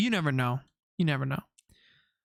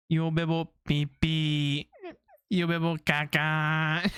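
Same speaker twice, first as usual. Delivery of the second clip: put-on childish quote; slower than usual. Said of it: "There's one where she's like".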